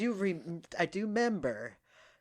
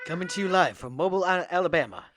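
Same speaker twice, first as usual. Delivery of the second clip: reporter voice; 3 dB louder, faster than usual. Retold or imitated. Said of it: "reporter voice".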